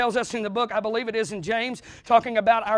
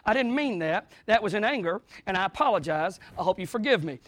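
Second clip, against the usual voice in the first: a lightly voiced, softer sheepish apology; a mild mock apology; 3 semitones lower, 3 dB quieter than usual. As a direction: back down after saying too much. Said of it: "you're like".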